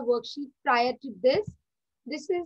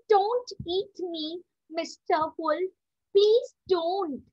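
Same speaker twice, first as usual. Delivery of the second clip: frightened fox; 5 semitones higher, slower than usual. Acted. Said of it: "cried the fox".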